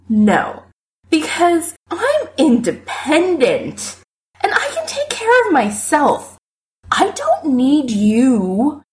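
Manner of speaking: put-on tipsy, slowed drunken speech. A narrator's reading. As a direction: talk like you've had too many. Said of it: "without slurring much".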